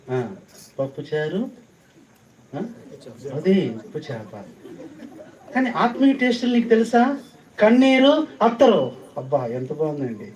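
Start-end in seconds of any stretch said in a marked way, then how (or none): 5.5-9.0 high, loud, rising preacher's cry; कन्नीरु, अत्तरु — loud high fervent call; fervent exclaim. Real, not acted. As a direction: proclaim the spiritual tastes to the hall. Preacher exclaims spiritual tastes.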